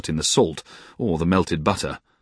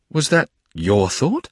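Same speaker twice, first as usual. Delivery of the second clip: slow, higher pleased question; delighted; 6 semitones higher, slower than usual. A narrator's reading. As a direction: savour the happy surprise. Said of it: "said I, delighted".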